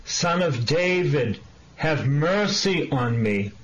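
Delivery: mild, drawn-out call for mercy; understated cry, slow and lifted. Acted. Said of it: "he cried out even loudly".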